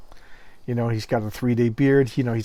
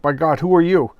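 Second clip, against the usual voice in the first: louder, startled demand; shocked wife; 3 semitones higher, 6 dB louder than usual. Retold or imitated. Wife to the stranger who came home, startled and loud. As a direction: imitate a wife taken aback. Wife confronted by transformed husband.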